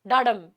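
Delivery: "डाडम" with the beat landing on the second syllable; iambic stress. Shown as a demonstration. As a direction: say "डाडम" weak then strong, like a heartbeat. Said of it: "यानी धीमा तेज".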